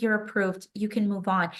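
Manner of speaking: mildly dismissive, matter-of-fact; understated bureaucratic indifference; indifferent official. Retold or imitated. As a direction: wave them on without caring. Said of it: "she did not care at all".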